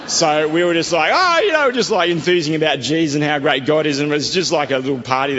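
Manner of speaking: bubbling over with joy; excited. Real, not acted. Recalling the happy reunion in the shop, high and excited.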